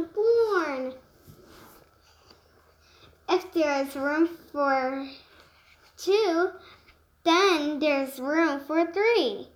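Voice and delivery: excited chatter of a small bird; chirping bird. Acted. Zinazoo bird admires the antlers, lightly chirping. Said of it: "and he chirped".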